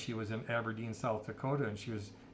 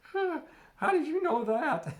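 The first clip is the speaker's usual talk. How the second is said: shocked gasp; 8 dB louder than usual. Retold or imitated. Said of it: "And she paled and she goes".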